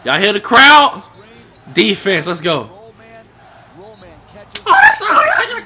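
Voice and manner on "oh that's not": high, slow laughing protest; real laugh. Real, not acted. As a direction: laugh it out in disbelief. Laughing at the game.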